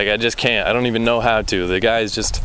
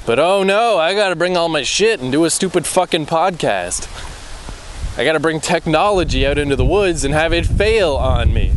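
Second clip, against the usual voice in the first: higher, mocking whine about his chores; sarcastic self-mockery; 4 semitones higher than usual. Real, not acted. Grumbling to himself about bringing tech to the woods, mocking. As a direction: sneer at his own plans, but oh no.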